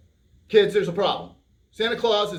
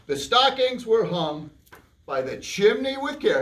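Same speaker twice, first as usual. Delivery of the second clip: storybook reading; 2 semitones higher, slower than usual. A narrator's reading. Reads story to kids.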